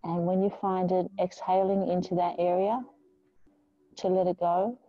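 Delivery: calm, measured yoga-teacher guidance with long pauses; unhurried meditation voice; guided meditation. Real, not acted. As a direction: ease them into stillness, leaving space between phrases. Leads a grounding meditation.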